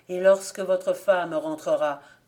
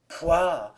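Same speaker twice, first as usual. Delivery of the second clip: disgusted exclamation; 6 dB louder than usual. Acted. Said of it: "s'écria-t-il aussitôt".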